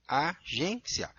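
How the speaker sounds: Agência with the ending merged, a-gên-cia; casual speech form. Shown as a demonstration. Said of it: "na fala fica parecendo que é paroxítono".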